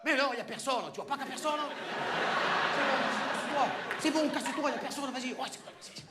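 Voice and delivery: high hushed whisper; whispering while hiding. Acted. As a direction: whisper an excuse to the guard. Answers guard pretending absence. (chuchotement en se cachant)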